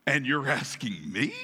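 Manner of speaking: dropped low, then jumping up on "me"; incredulous Cain. Acted. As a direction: throw the question back in disbelief. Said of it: "if you're Cain, you're probably like".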